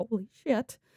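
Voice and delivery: anxious, excited, high, hushed half-whisper under breath. Retelling a video where a man walks a property, retelling a half-whisper to himself. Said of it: "when he whispers to himself".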